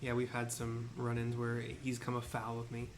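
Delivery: ancient rasping undead king. Acted. Voices pompous merchant.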